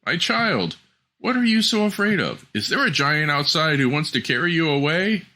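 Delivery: high, worried fatherly voice; a concerned king asking gently. Acted.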